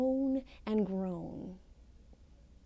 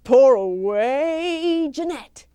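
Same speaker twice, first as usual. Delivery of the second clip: high, loud frantic yell; 7 semitones higher, 10 dB louder than usual. A narrator's reading. Husband yelling a warning to his wife across the cottage. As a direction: shout the warning across the room. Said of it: "to yell out".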